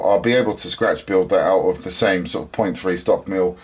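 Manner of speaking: teeth slipping while talking; words slurred by loose teeth; loose dentures. Real, not acted. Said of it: "sorry, I'll put my teeth back in".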